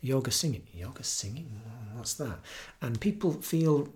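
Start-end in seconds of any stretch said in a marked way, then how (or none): 0.7-2.4 puzzled listener. Retold or imitated. Listener hearing about kirtan for the first time, puzzled. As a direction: softly echo it as a puzzled question. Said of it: "I tell people I'm doing kirtan".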